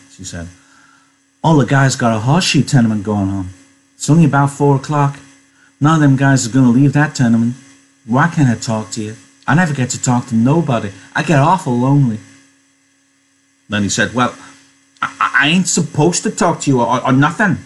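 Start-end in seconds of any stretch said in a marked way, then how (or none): 1.4-12.2 lightly voiced American woman, coaxing; a hint of plaintive pleading in a character voice; coaxing lonely woman. Voices Curley's wife. 14.1-17.6 lightly voiced farmhand, stammering and higher; anxious simple man. Voicing Lennie refusing to talk.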